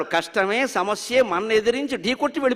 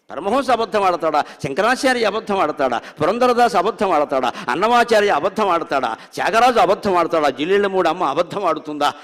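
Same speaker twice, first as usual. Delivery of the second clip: building rhetorical questions; 4 dB louder than usual. Real, not acted.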